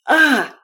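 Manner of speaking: sharp high cut-off scream; a brief frightened shriek, choked off; short high loud cry of fright. A narrator's reading. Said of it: "чтобы закричать".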